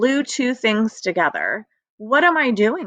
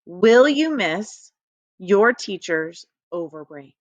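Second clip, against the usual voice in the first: slow reading; 2 semitones lower than usual. Shown as a demonstration. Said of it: "Let's read that one more time".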